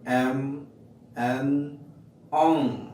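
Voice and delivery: এম, এন, অং hummed through the nose; nasal sounds demo. Shown as a demonstration. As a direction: let each sound ring in the nose. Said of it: "nasal কনসোনেন্টগুলো হচ্ছে কি". (নাক দিয়ে গুনগুন করে উচ্চারণ)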